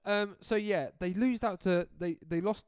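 high, loud, breathless words; still laughing. Real, not acted. Recovering from a laughing fit, giggling. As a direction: try to talk through giggles.

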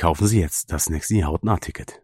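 mock advert pitch. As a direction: announce it like a radio commercial. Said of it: "Das können wir gleich als Werbung nehmen".

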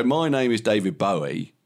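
lightly Cockney impression of a singer; a hint of Cockney on the singer's line. Shown as a demonstration. Podcaster testing an impression method, a bit Cockney. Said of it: "which is a bit Cockney".

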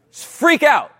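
freaking out. Retold or imitated. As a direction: jolt with alarm.

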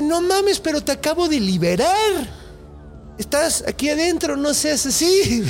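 pleading man. Retold or imitated. Freed man pleads with genie.

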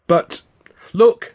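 high urgent exclamation; sudden alarm. Acted. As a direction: cry out suddenly, pointing. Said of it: "Stan said suddenly".

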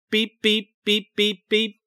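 light high mock electronic beeps; imitated beeping. Betty imitating the signal she heard, mock beeps. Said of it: "some kind of electrical signal".

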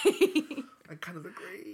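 slow, stretched, full voice; slow drawn-out agreement. Real, not acted. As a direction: drag the words out deliberately. Repeated louder, drawn out.

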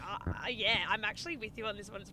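tongue-tied, tripping over the words; start, stumble and give up in a garble; imitating flustered stammering; retold speechless stammer. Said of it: "I literally couldn't speak".

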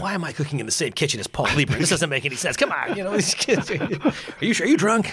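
incredulous rant. Retold or imitated. Retold disbelieving rant.

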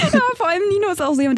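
giggling through the words; laughing. Real, not acted. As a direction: still laughing while talking.

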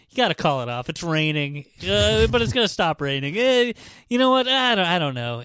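hammed-up dithering, arguing with himself; panicky Gatsby. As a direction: imitate a jittery man flip-flopping. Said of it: "he's white as a ghost".

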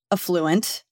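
slow affluent, uh-FLOO-ent; affluent, second-syllable stress. Shown as a demonstration. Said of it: "I don't put the emphasis on the first syllable".

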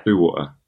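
"Blue water" as two distinct words; normal pronunciation. Shown as a demonstration. Co-host repeating the proper version, normal "Blue water". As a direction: keep the W clear in "Blue water". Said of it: "You say, uh".

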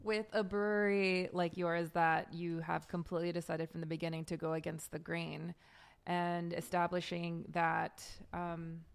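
creaky vocal fry at phrase ends. Real, not acted. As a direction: let the voice drop into creaky fry. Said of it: "Vocal fry".

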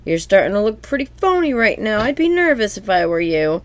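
high taunting game-show host; quiz host voice. Acted. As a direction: needle the contestant. SpongeBob quizmaster taunting.

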